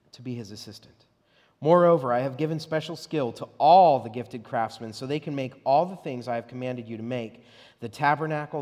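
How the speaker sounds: emphatic Bible reading; scripture reading. Acted. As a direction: read it out like a proclamation. Reads scripture aloud.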